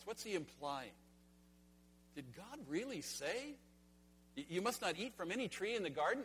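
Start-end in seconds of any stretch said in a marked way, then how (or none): 2.1-6.2 insinuating doubt. Retold or imitated. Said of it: "Can you hear it in his voice?".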